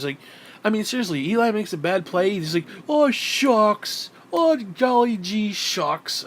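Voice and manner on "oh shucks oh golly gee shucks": high, drawn-out mock pout; mock pouting toddler. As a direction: whine it like a sulking little kid, hammed up. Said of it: "pout like little toddlers".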